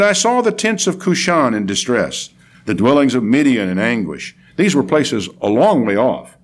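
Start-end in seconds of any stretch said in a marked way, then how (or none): 0.0-4.4 emphatic Bible recitation, falling at the end; declamatory prophet's testimony; scripture reading. Acted. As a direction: read the prophet's vision with weight. Reads scripture aloud.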